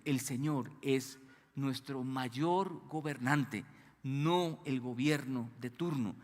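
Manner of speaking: slow, deliberate, every word weighed; measured preacher's first statement; slow emphatic statement. Shown as a demonstration. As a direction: lay it down slowly and gravely. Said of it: "escúcheme".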